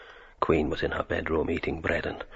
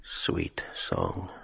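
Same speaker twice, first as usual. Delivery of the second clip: low whispered echo; 11 semitones lower, 6 dB quieter than usual. A narrator's reading. Tail of song phrase.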